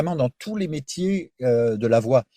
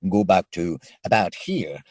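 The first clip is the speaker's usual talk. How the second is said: cartoon voice; slower than usual. Shown as a demonstration. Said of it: "un exemple de votre voix, lorsqu'il s'agit de cartoons". (voix de dessin animé qui passe des aigus aux graves, lentement)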